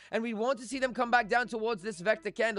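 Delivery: a touch of a British chart analyst, half-joking; British accent as Tino. Retold or imitated. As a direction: put on a posh-ish British analyst voice for Tino. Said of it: "I'm gonna try to be Tino here".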